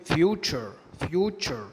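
"future" as fyoo-cher; ture as cher. Shown as a demonstration. Teacher giving an example of t before u, "future" with ch. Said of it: "ففي الغالب بينطقوا تش".

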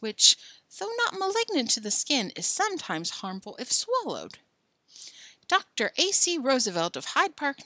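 a lightly pompous doctor reading his letter aloud; formal doctor's letter. Acted. Teacher reads the fake doctor's letter to the Forresters, mildly pompous. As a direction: read it like a stiff, official physician.

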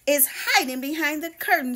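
happily. Acted. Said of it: "she said happily".

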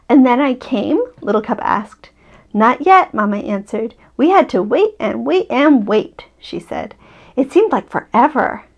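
gentle bedtime story reading; story narration. A narrator's reading. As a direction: read it like a picture book to a child. Reads picture book aloud.

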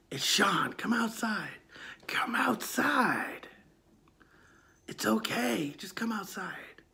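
slow, soft creepy whisper; coaxing whisper. Retold or imitated. Caller whispering to the frightened boy to come outside. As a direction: lure the boy out gently.

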